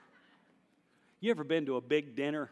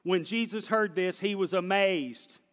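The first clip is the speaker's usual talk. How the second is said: louder corrected reading; 4 semitones higher, 5 dB louder than usual. Shown as a demonstration. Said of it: "That's the Andy version".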